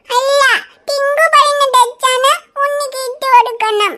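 put-on slow, sing-song child voice; proud toddler boasting about candy; eager little boy. Tinku telling Riya his mother promised candy.

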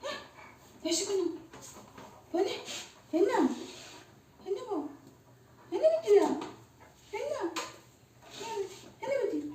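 high, soft cooing questions; tender coaxing. Real, not acted. Mother asks her upset child what is wrong, tenderly coaxing. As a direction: coax gently in a small, high voice.

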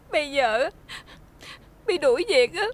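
words caught in tears; crying. Acted. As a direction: sob the words out. Fired servant pleads, crying.

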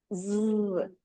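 즈 as a long buzzing z; voiced z sound. Shown as a demonstration. Teacher showing students the z sound, buzzing 즈. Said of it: "즈 발음은 어떻게 된다 그랬어?".

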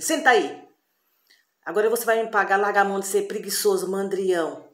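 stern master berating his apprentice; angry wizard. Acted. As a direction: tell off the lazy boy. Wizard scolds lazy apprentice.

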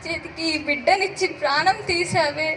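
put-on anguished lament calling the fading child; despairing wail. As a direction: cry out to God in helpless grief. Pushed away, baby fading. (నిస్సహాయంగా దేవునికి మొరపెట్టుకునే విలాపం)

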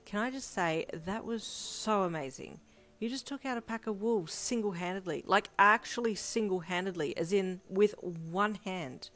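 gushing. A narrator's reading. Gushing praise after the fight.

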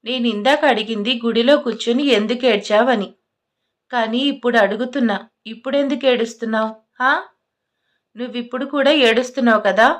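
insistent, slightly heated questioning; angry, firmer. Acted. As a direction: press for an answer with mild anger. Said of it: "ఇంకాస్త గట్టిగా అడిగాడు". (కాస్త కోపంగా, గట్టిగా)

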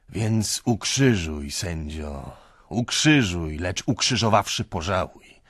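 slow, loud, pleading „ukrzyżuj”; anguished cry. Acted. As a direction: cry out to be judged. Drunk man's anguished plea. (żarliwie i głośno)

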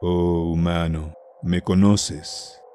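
slow, hollow voice from the tomb; sepulchral voice. Acted. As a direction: drag each word out like a dead sage. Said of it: "le habló con voz sepulcral".

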